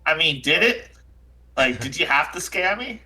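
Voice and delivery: mildly hurt, questioning character voice; lightly acted wounded protest; Jack O'Toole. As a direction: press a friend for a reason, a little aggrieved. Game master voices Jack O'Toole.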